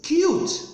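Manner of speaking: "Cute" high, in one emphatic falling beat; one-beat demonstration. Shown as a demonstration. Teacher repeating the example, "Cute" as one high beat. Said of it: "eu só digo uma vez".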